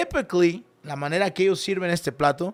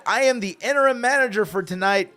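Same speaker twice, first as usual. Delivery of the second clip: taking charge; 3 semitones higher, 5 dB louder than usual. Retold or imitated. Customer takes charge as manager.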